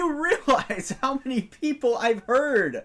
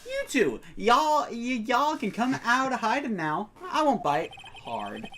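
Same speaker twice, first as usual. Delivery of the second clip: put-on Southern accent; 3 semitones higher than usual. Photographer calling two shy visitors out, Southern accent. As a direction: coax them out in a Southern accent. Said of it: "you're better with a Southern accent than me".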